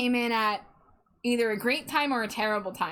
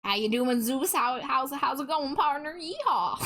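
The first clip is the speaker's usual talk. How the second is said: put-on Southern accent; 2 semitones higher than usual. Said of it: "Join in on the Southern accent".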